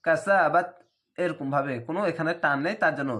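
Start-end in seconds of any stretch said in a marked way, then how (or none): 0.1-0.7 read quickly. Shown as a demonstration. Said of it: "অনেক দ্রুত পড়তে হবে".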